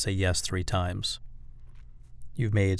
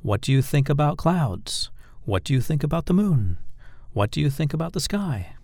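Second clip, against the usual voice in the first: higher voice, lifting towards "clouds", "moon", "sky"; raised question inflection; 5 semitones higher than usual. Shown as a demonstration. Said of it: "your voice inflection should go up".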